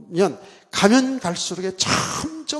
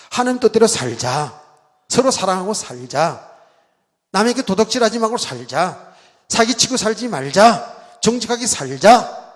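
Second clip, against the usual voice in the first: louder, slow, hammered-out exhortations; mock legalistic preaching; 5 dB louder than usual. Preacher parodying old legalistic sermons, louder and slow. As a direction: preach each rule like a stern old-style sermon.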